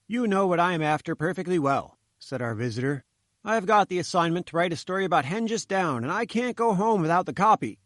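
a hint of the eager little newsman; reporter Roy. Roy explains his assignment to Malone, lightly voiced.

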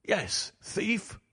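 narrated roar held well back; restrained roar. A narrator's reading. Father shaking his son by the shoulder, restrained roar. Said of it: "I roared".

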